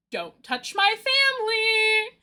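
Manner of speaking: high, slow drawn-out warning; hammed-up protective threat, stretched out; mock possessive warning. Corbeau grabs the rival boss's hand, hammed-up slow warning. Acting Corbeau getting mad at Savan.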